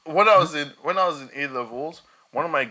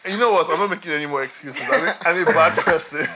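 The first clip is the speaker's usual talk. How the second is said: mock confession; 2 semitones higher, 5 dB louder than usual. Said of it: "you almost sound like you're parodying racists".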